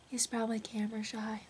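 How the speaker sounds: hushed aside; whisper. Real, not acted. Owner whispers about her shy cat, hushed aside. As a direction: whisper it so the cat won't hear.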